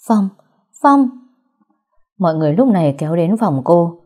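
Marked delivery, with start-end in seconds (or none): 0.1-0.3 first tearful call of his name, still held back. A narrator's reading. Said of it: "nước mắt không ngừng tự chủ rơi lã chã". 0.8-1.1 his name cried out louder in panic; crying out. A narrator's reading. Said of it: "nước mắt không ngừng tự chủ rơi lã chã".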